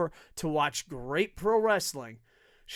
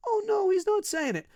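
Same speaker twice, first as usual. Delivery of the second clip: mock disappointed fan.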